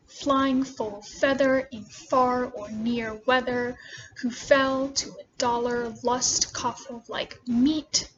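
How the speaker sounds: slow, measured verse reading; poem reading. Acted. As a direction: read the poem aloud slowly, line by line.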